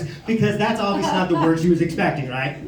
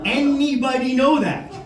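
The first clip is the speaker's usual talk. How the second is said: higher, incredulous demand; mock outrage; 6 semitones higher than usual. Comic questioning who skins cats, incredulous. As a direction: exclaim in baffled disbelief.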